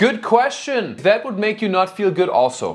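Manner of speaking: put-on German accent. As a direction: voice a German audience member with a German accent. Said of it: "do a German accent on stage".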